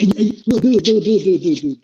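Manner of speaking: insistent interrupting. Real, not acted. Cutting in during a heated argument.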